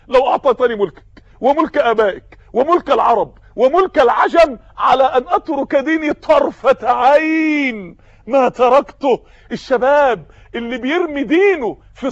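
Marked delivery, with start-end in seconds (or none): 0.1-9.2 slow, ringing refusal that rises to a shout; defiant cry. Acted. Captive refusing Caesar's bribe, defiant slow shout. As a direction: hurl the refusal at the emperor, dragging each word. Martyr defies Caesar's offer.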